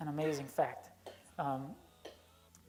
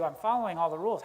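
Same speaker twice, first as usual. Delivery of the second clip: louder, fast aggrieved protest; indignant complaint; 6 dB louder, faster than usual. Acted. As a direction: rattle off your good deeds in resentment. Older brother complains to father.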